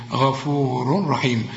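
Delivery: "غفور رحيم" slowly, straight into a doubled r with no nasal; merged without ghunna. Shown as a demonstration. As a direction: join "غفور رحيم" without any hum. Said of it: "إدغام كامل بدون غنة".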